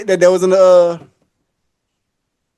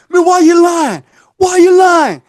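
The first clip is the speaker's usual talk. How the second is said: 1 angry yell; 7 semitones higher, 5 dB louder than usual. Retold or imitated. Tim confronting the girl angrily.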